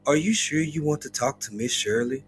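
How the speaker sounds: automated voice. Retold or imitated. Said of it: "an automated voice be like".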